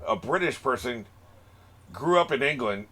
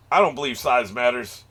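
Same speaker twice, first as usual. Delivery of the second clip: normal talking voice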